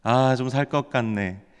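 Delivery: gentle, contented acted remark; softened springtime voice. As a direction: ease into it like someone enjoying the first mild day. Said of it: "사람들의 목소리도 좀 부드러워집니다".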